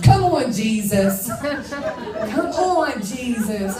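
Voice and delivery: slow, loud, high cry of praise with a laugh; amazed praise. Real, not acted. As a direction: call out to Jesus in amazement. Amazed at the name Diamond.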